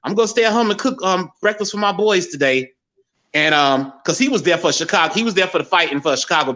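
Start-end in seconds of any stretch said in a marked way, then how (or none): 0.0-2.7 higher mom voice, lightly voiced; imitating his mother. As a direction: quote mom with pitch raised. Retelling mother's words.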